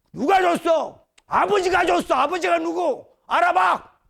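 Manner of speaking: high, loud, triumphant retort; confident shout. Acted. Debtor boldly answering the stunned creditor, confident shouting. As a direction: fire it back boldly, pitch way up. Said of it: "당당하게 이제 채권자한테 당당하게".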